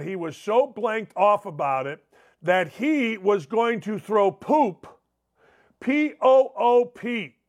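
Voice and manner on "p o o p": P O O P spelled letter by letter, slow; spelled out slowly. Shown as a demonstration. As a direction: spell "P O O P" out deliberately. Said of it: "spelling the word out".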